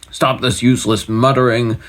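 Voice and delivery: a light command; mild royal order. Acted. King ordering magicians to stop, mild command. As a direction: order them to stop, not too hard. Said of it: "ordered the king".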